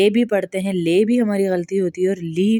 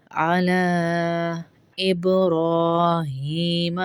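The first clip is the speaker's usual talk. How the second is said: slow chanted durood; slow recitation; much slower than usual. Acted. Teacher recites durood for students. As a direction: draw out every word reverently.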